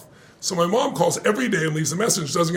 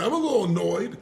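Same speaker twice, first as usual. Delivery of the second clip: understated, slightly raised voice of a barely bothered partner; imitated mild annoyance; 3 semitones higher than usual. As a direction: play down the irritation. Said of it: "The first one he said".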